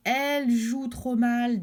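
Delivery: garçons moqueurs. Acted. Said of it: "disent les garçons".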